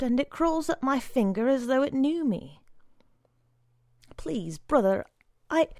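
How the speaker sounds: put-on pleading boy. A narrator's reading. Boy pleads for his caterpillar.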